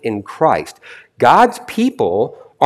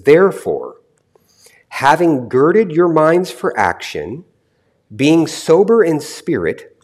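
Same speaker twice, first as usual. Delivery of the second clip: measured verse reading with pauses between phrases; slower reading. Shown as a demonstration. Preacher rereading the verse for close study, slower reading. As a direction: read it out more slowly, phrase by phrase. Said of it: "I'm gonna read it slower to you".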